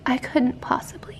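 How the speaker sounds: soft, breathy whisper of a bashful dog; whispered coy dog voice. Pretend. Voicing the bashful husky, coy whisper. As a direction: whisper it like a shy diva. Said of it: "She's like".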